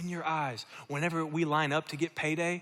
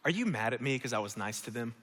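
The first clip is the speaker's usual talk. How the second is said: 1 gentle paraphrase; 3 semitones lower than usual. Acted. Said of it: "In other words".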